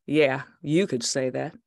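guard growling at the dog owner; growled. Acted. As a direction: grumble it at her. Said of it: "he growled".

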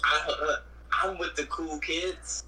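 slow teasing brag with a rising finish; mock cool-kid boast. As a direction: play a try-hard claiming to be cool. Mimicking someone claiming coolness.

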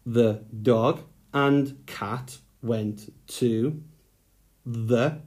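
slow, word by word dictation; slow dictation to young writers. Shown as a demonstration. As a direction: dictate each word slowly for writing. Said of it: "dictating sentence slowly".

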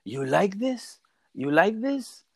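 a taunting uncle building up; uncle showing off. Retold or imitated. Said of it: "and he's like".

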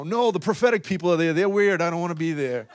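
mock complaint. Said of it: "I'm only kidding".

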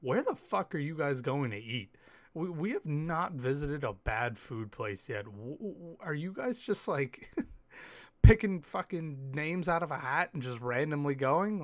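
teasing, laughing; mocking disbelief. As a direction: poke fun at their bad picks. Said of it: "And we'd always be like".

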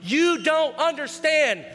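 high, drawn-out mock protest; freaking out. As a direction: imitate someone worked up, stretching the complaint. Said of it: "we're freaking out like".

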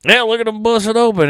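showing off in a put-on Southern twang; Southern wrestler impression. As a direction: crow it in a hammed-up Southern accent. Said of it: "I hate trying to do his voice".

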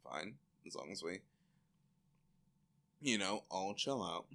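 mock reluctant mutter; reluctant mumble. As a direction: shrug it off grudgingly. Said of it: "they're like".

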